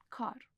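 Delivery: کار with the k forward in the mouth; fronted Persian k. Shown as a demonstration. Teacher contrasting Persian with Italian, fronted k in کار.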